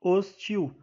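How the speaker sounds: "Hostil" in two parts, hos and til; split into syllables. Shown as a demonstration. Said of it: "na separação de sílabas ficaria assim".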